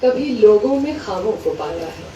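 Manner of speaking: measured Urdu verse recital, falling away at line ends; mushaira-style reading, each half-line set apart; poetry recitation. Acted. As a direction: recite the couplets with pauses between phrases. Recites a couplet to the audience.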